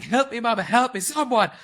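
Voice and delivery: high, loud mock-Italian wail for help; hammed-up cry of a man falling apart; desperate wail. Imitating Guido's breakdown song, a loud high desperate wail. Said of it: "And he's just like".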